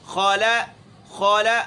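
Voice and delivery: خالا with the kha not held or hissed out; خالا with a light, brief kha; short kha without friction. Shown as a demonstration. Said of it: "یہ آواز زیادہ نہیں چھوڑنی ہے".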